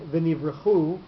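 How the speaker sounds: v'nivrechu with the accent on final chu; last syllable stressed. Shown as a demonstration. Teacher giving an example of a milra word, v'nivrechu stressed on chu. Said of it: "is a mil ra word".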